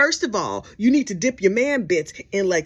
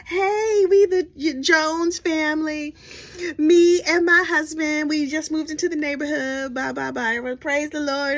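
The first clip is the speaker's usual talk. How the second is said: perky new wife; 6 semitones higher than usual. Retold or imitated. Clueless new wife introducing herself at Visitor Sunday, high and perky. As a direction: chirp it sweetly to the whole congregation.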